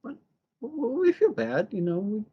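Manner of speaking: retold halting, high-voiced contrition; mock feeling bad. Oliver and Mabel apologising to Charles, mock contrite. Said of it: "they do actually feel bad".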